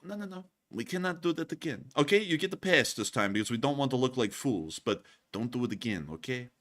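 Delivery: soft, hushed warning to a subordinate; hushed scolding. Retold or imitated. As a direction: scold under your breath so nobody hears.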